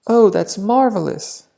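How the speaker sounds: pleased little grandma. Acted. Grandma answers. (grandma delighted at the door, higher voice)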